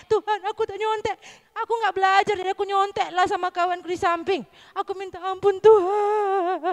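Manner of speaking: whiny little penitent begging forgiveness; earnest child's confession. Pretend. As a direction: act out a sorry pupil praying, wailing off on the last word. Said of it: "Sungguh-sungguh dia berdoa".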